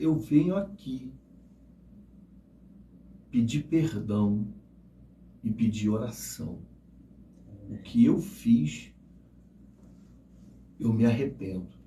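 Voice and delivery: hushed, humble, soft, slow murmur. Retelling a man's plea for forgiveness at the altar: imitating someone speaking softly. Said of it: "ele falando baixinho".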